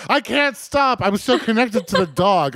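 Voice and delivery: high, whiny melodrama; mock melodramatic Jean. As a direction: overplay her self-pity, high. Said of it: "she's like".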